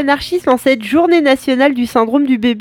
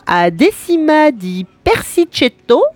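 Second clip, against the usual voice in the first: slow careful Italian accent on "Decima di Persicetto"; 3 semitones higher, slower than usual. Shown as a demonstration. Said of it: "c'est parti pour un autre type d'accent". (accent italien appliqué)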